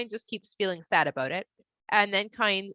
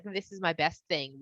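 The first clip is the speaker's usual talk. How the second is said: proud offering; 2 semitones lower, 6 dB quieter than usual. Retold or imitated. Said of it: "If somebody's like".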